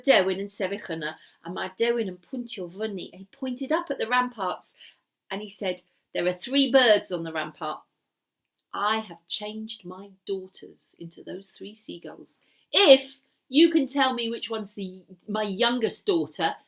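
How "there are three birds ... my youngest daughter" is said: commanding wizard. Acted.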